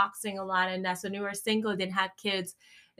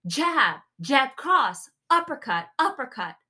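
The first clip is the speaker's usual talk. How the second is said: boxing instructor calls; 4 semitones higher, 3 dB louder than usual. Retold or imitated. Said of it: "So he'll say something like".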